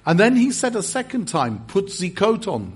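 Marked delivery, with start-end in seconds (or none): 1.7-2.7 put-on French accent. French pastor repeats his order to the visitor, French accent. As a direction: imitate a French pastor insisting. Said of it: "That's a French accent for you".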